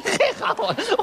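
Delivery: breaking up with laughter mid-line; laughing while talking. Real, not acted. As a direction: laugh out the words, quick and high. Laughing while addressing Granny Wang.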